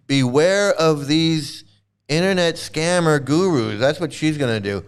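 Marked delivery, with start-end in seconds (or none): 0.1-3.8 slow, drawn-out mock public warning. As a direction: spell out the warning slowly like a watchdog channel. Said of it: "Queen of Karma is gonna make her own video and expose this guy and say".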